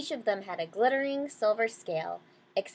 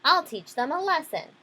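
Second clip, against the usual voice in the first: mildly angry, louder and higher; lightly acted threat, pitched up; angry whale; 7 semitones higher, 5 dB louder than usual. Angry whale vows to get back at the fish, mildly indignant. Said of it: "soon he grew very angry".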